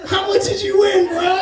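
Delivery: high-pitched, keen mock-dad question; eager dad. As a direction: imitate dad suddenly dying to know. Dad turns eager about the bet.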